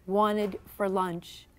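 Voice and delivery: ordinary delivery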